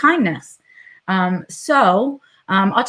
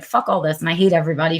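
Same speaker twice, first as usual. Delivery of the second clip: fed-up grumbling; 3 semitones lower, much faster than usual. Retold or imitated. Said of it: "that why attitude".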